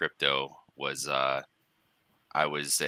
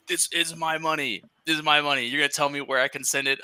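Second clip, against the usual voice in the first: higher, half-joking outraged complaint; mock upset protest; 11 semitones higher than usual. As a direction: replay the indignant customer, hammed up. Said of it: "I got so upset".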